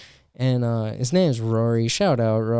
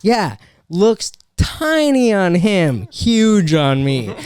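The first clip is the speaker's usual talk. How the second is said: higher, louder joking hype voice; mock buddy intro; 8 semitones higher, 4 dB louder than usual. Comic imagining a joke to the crowd, mock hyped. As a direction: sell the big guy as his pal, hammed-up. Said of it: "or like".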